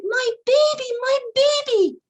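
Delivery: high, loud, desperate cry; mother crying out. Acted. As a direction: call out for the stolen baby at full voice. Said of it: "she began to cry out".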